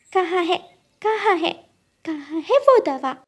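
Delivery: excited sleepy bird shouting; shouting eagerly. Acted. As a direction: call out desperate in a dream. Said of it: "ऐसे शोर मचाते हुए".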